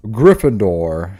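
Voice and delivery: slow, drawn-out announcement; half-hearted hat voice. Retold or imitated. Streamer imitating the hat placing him, slow announcing voice. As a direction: attempt the sorting hat's proclamation, roughly. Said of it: "I can't do that hat, um, voice".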